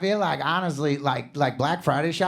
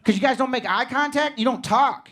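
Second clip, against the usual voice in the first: mild mock anger; 5 semitones higher than usual. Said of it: "The dad gets so mad".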